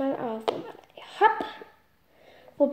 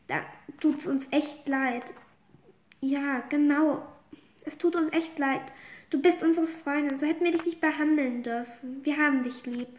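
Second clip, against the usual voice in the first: soft apology; 4 dB quieter than usual. Acted. Friends apologise softly.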